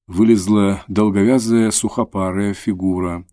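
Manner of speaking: ordinary delivery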